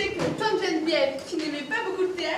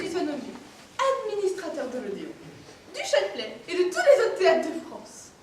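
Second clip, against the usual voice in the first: hammy stage actor. Acted. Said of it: "Je fais la mère du poète".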